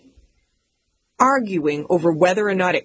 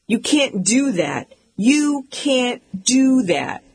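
slow, rising higher on the repeat; insist, getting more worked up; mock indignant protest; 5 semitones higher, slower than usual. Older brother protesting the card trick, slow rising mock indignation.

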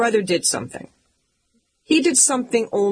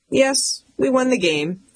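"Yes" pitched up, the rest smug and even; mock calm brother; 6 semitones higher than usual. Little brother claiming the win, mock calm and smug. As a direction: play the unbothered little brother. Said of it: "He said it so dang calm".

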